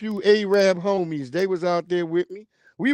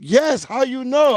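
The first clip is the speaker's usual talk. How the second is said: put-on Arab accent; 6 semitones higher, 4 dB louder than usual. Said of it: "He was an Arab too".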